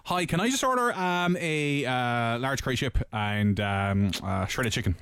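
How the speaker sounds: casual relaxed tone. Pretend. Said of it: "Wait for the difference".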